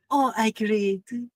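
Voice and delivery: high, slow, drawn-out greeting; lightly voiced giantess calling Hagrid; tall woman's call. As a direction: sing out his name fondly.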